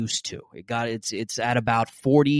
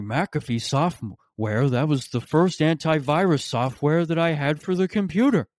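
imitating dad as Joe Biden; 3 semitones higher than usual. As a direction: stretch out McAfee software like a fond old man. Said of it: "why I'm giving him that voice".

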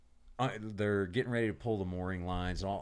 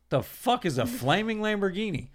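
baffled; 10 semitones higher, 5 dB louder than usual. Retold or imitated. Quoting his own confusion.

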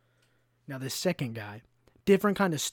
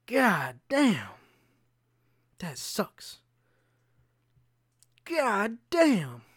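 looping groan of dismay; 4 semitones higher, much slower than usual. Retold or imitated. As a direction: wail it over and over, then deflate. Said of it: "I'm not even doing it justice. It was louder".

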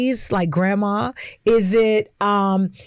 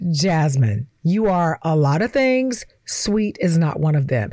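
low, flat-voiced verdict; a hint of a blunt boyfriend laying it down; deadpan friend; 7 semitones lower than usual. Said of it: "looked me dead in my face and said".

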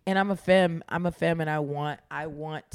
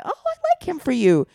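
higher, louder mock-mom cooing; mom's gushing approval; 10 semitones higher, 6 dB louder than usual. Mom approving of her child's cute guy, mock gushing. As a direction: imitate a mom gushing over a boyfriend.

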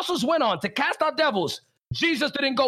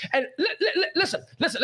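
stumbling through a laugh; 2 semitones higher, much faster than usual. Real, not acted. Preacher laughing at his own fervor, stammering through laughter. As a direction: laugh it out, tripping on the word.

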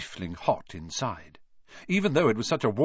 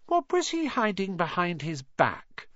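thoughtful; 9 semitones higher than usual. A narrator's reading. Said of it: "said Hermione thoughtfully".

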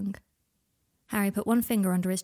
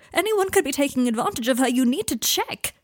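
distraught plea; 7 semitones higher, 7 dB louder than usual. Acted. Draco begging Harry to check him, distraught. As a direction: press him hard, voice straining.

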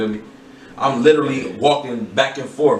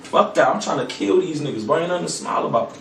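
defiant retort; 8 semitones higher than usual. Retold or imitated. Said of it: "But I'm like".

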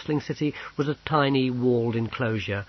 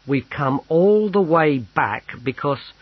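slow, firm explaining; patient; 4 semitones higher, 5 dB louder, slower than usual. A narrator's reading. Sergeant explains their return to the clerk, patiently. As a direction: spell it out slowly and patiently. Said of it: "said Carius patiently".

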